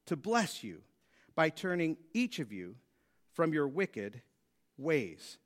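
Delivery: measured reading with deliberate pauses; scripture reading. A narrator's reading. Continues reading the passage.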